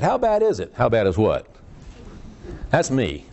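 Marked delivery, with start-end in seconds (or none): 0.0-0.7 high, eager setup question; pitched-up straight-man question; questioner in joke. Acted. Acts out both sides of joke. 0.7-1.5 lightly acted low-pitched blank reply; low, mildly puzzled punchline; forgetful reply.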